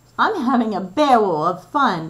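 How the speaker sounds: loud, gleeful giggling. Narrator reads Wodney's line, giggled. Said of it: "giggled Wodney".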